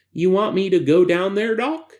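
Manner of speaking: a hint of a nervous subject; subject character voice. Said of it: "that's a little too annoying a voice".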